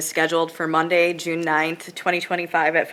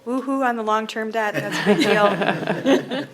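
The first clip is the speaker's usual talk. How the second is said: excited cheer; 5 semitones higher than usual. Real, not acted. Cheering the finished debt payment.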